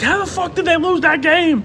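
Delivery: retold disbelief. Fans arriving home to the loss, high stunned disbelief. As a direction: sound floored by the bad news.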